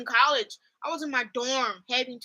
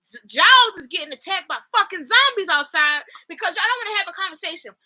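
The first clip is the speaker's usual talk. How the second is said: mock ranting; 2 semitones higher, 4 dB louder than usual. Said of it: "I was so mad because I was like".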